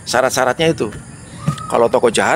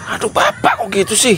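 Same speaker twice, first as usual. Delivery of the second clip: higher, whiny complaint; mildly annoyed; 9 semitones higher than usual. Shown as a demonstration. Daughter gently annoyed with her father, whining. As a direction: sulk at dad without shouting. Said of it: "Kesel apa?".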